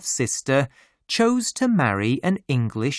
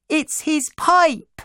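high, slow, loud reveal; shouted; 4 dB louder than usual. A narrator's reading. Little sister revealing the pipe trick, high slow shout. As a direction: shout it out with glee. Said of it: "shouted my little sister".

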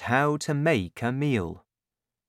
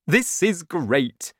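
delighted father; 6 semitones higher, 4 dB louder, slower than usual. A narrator's reading.

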